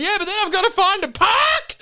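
high, loud, fretful; the sister fretting about finding a park; stressed sister. Retold or imitated. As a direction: whine it out in a panic. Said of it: "sister voiced again".

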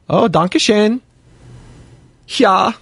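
playful put-on German accent. Thanking a chat listener from Germany, in a German accent. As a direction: lightly slip into a German accent. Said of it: "I always get into my German, uh, accent".

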